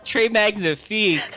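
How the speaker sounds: high, hammed-up French accent; mock French accent. Teasing praise of a friend's accent, mock French flourish.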